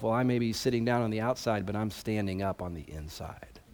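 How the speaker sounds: muttered under the breath; mumbling. Retold or imitated. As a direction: mumble it to yourself, sulking. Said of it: "he mumbles to himself".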